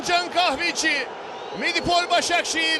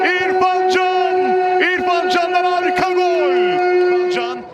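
screaming football commentator; 4 dB louder than usual. Real, not acted. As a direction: stretch the goal call out loud. Goal call in live commentary.

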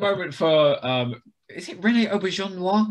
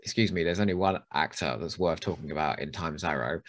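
usual speaking voice

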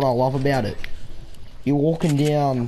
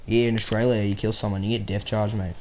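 lower, mock Australian accent; Australian stereotype; 5 semitones lower, 5 dB quieter than usual. Gamer joking about Australian law, in a stereotype Aussie accent. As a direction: put on an Aussie mate voice. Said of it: "I can't do that stereotype".

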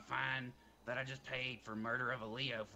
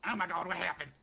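startled cry; 5 semitones higher, 6 dB louder than usual. Real, not acted. Suddenly sees something go wrong.

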